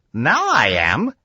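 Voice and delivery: a hint of a wry old doctor sizing up a scheme; Doc Sam's voice. Scientist answers his eager young friend, lightly voiced and dry. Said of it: "He said".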